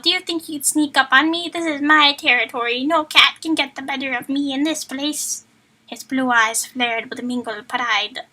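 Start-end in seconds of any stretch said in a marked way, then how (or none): 0.0-5.4 gruff villain voice. Acted. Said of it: "why am I talking like this".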